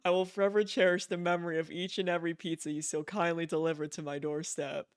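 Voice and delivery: lightly voiced, stately letter-writer; formal letter reading. Player reading Higgs's email aloud, mildly formal voice. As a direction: read it like a mildly pompous gentleman's letter.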